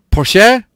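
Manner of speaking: "Porsche" as por-SHEH, high questioning rise; Porsche ending in "eh". Shown as a demonstration. Trying another pronunciation on viewers, "Porsche" as por-sheh. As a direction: say "Porsche" with a stretched final "eh". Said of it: "How do you really pronounce it".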